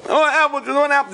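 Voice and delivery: high-pitched mock toddler wail; toddler crying fit. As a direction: imitate a child screaming for juice. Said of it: "crying and screaming".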